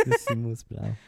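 beginner's go at "The Himmel ist blau"; "The Himmel ist blau" with an English-speaker accent; bad German pronunciation. Shown as a demonstration. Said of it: "That was really bad".

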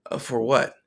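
breathy half-whisper of confusion; whispered puzzlement. Retold or imitated. Answering the voice in his head, whispered and puzzled. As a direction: ask it under your breath, baffled.

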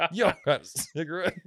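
lightly put-on homeless-guy voice. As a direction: pretend to bum a smoke as a street guy. Playing homeless guy as podcast guest.

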